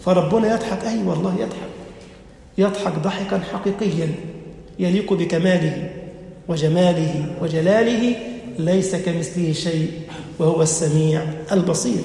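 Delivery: preacher affirming God's laughter with awe; reverent hush. Acted.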